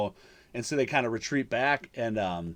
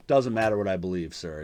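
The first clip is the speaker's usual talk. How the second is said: lightly voiced officer, lower pitch; a hint of a dismissive cop; police officer's reply; 6 semitones lower than usual. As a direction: retell a cop's dismissal in a low, subdued voice. Acting out an impassive police officer.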